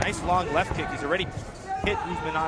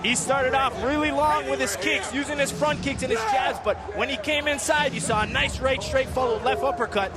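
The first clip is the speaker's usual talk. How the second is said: excited; 6 semitones higher than usual. Real, not acted. Co-commentator excited after stoppage.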